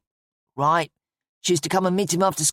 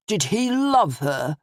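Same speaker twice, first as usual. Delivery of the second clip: stark; 3 semitones higher, slower than usual. A narrator's reading.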